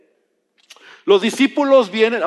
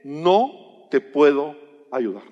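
stern Jesus refusal; 7 semitones lower, slower than usual. Retold or imitated. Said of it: "la respuesta de Jesús fue".

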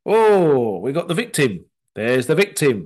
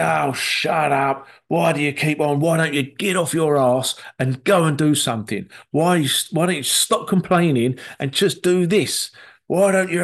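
mock angry; 3 semitones higher than usual. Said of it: "And you get angry".

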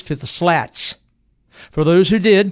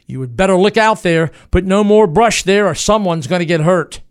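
loud, higher warning through the wall; 4 semitones higher, 7 dB louder than usual. Acted. Booth warning Garrett off the barn wall, loud threatening shout. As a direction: shout a threat at the man piling brush.

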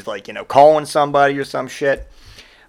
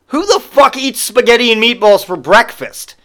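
higher and louder disbelief; incredulous; 9 semitones higher, 6 dB louder than usual. Real, not acted. Storyteller asks the audience, loud and incredulous. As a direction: ask it in outraged disbelief.

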